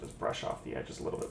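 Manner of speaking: soft unvoiced whisper to herself. Real, not acted. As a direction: breathe the words while concentrating. Quietly working on the edges.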